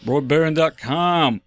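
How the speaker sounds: slow drawn-out promo tag; slow announcer read. Acted. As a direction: announce it slowly like a radio plug. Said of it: "repeats promo tag".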